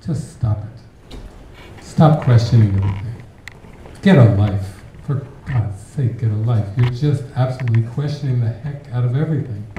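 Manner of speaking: exasperated plea, hitting the key words hard; imitating fed-up classmates; pleading classmates. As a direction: beg them to stop, emphatic and fed up. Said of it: "fellow classmates saying to me".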